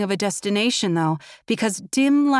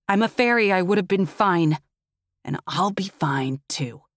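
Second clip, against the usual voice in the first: wheezing. Acted. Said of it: "he wheezes".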